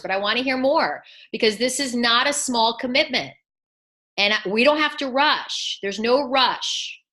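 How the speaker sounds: unhurried, gentle reassurance, easing off the pace; calm slowing down. Shown as a demonstration. Coach models for Claudia how to calm an eager client, gently. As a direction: soothe the client and take the time. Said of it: "I want you to start saying".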